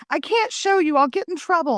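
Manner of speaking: high-pitched pleading kid impression; mock whine of an upset little boy; imitated crying child. Crying son afraid to show mom, imitated high plea. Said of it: "He's crying and he's like".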